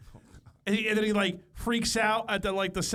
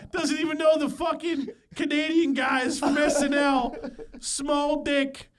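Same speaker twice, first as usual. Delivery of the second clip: high, loud, drawn-out mock rant; hammed-up indignant dad voice; imitation of dad; 6 semitones higher, 3 dB louder, slower than usual. Son acting dad ranting to mom, mock outrage. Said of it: "my dad just runs and tells her".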